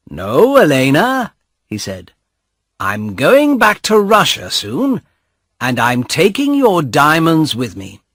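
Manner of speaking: lightly voiced young man taunting his sister; mocking brother. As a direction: tease her as you keep the jewels.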